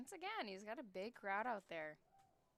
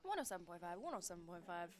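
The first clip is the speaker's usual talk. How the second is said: auctioneer; faster than usual. Pretend. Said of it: "one of those auctioneer voices".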